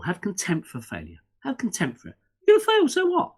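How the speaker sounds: builds from plain to a loud high shout; rally them, ending in a big shout; fired-up call to shrug off failure; rousing shout. Shown as a demonstration. Urging people, rising to a shout.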